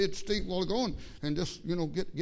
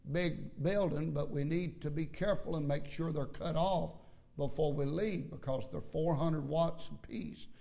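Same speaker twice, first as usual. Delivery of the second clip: softer, calm, polite pulpit reminder; polite announcement; 3 dB quieter than usual. Retold or imitated. Pastor gently reminding the church about the lights, politely. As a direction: keep it gentle and courteous. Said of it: "I said it with this tone of voice".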